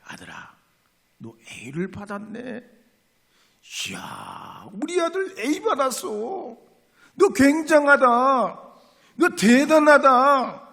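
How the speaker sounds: high, loud gushing praise from a mother; proud mother. Retold or imitated. Mother gushing over her son's A, high and loud. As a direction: rave over the A like a proud mom.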